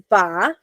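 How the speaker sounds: slow, drawn-out ba; sounding out ba. Shown as a demonstration. Teacher to class, sounding out the letters slowly. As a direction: say ba slowly, syllable by syllable. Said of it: "we know we have an A".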